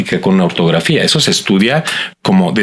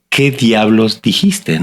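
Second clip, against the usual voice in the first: slow exasperated mock question; much slower than usual. Teacher to reading student, slow mock exasperation. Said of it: "como un mantra donde digo".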